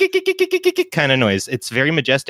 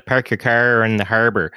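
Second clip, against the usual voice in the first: Nova Scotian accent. Shown as a demonstration. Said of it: "I can do the, the Nova Scotian".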